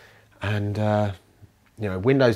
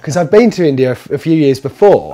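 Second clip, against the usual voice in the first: worked up; 6 semitones higher, 10 dB louder than usual. Real, not acted. Still worked up about India.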